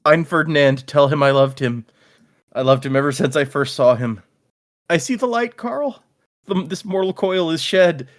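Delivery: a touch of theatrical death scene; hammed-up dying speech. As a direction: ham up a dying goodbye, lightly voiced. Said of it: "she starts playing it up".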